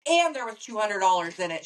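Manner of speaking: lightly imitated little cousin announcing a gift; little cousin's announcement. Little cousin announcing the money in the card, lightly imitated. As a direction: report it lightly in a child's words. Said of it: "That's how she said it".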